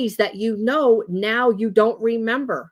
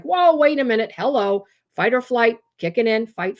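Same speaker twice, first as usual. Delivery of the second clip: high mock alarm, easing off toward the end; adrenaline alarm; 4 semitones higher than usual. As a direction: act out a sudden adrenaline jolt. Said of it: "you all of a sudden get this adrenaline rush".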